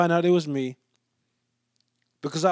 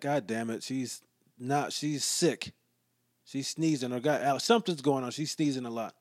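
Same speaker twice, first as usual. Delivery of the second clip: softer, muttered under the breath; hushed mutter; 4 semitones lower, 7 dB quieter than usual. Retold or imitated. Muttering to himself about the sneezing deli woman, hushed. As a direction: grumble it quietly so she can't hear.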